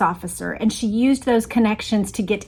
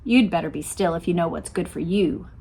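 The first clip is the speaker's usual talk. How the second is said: warned; 4 semitones lower, 5 dB quieter than usual. A narrator's reading. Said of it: "he warned".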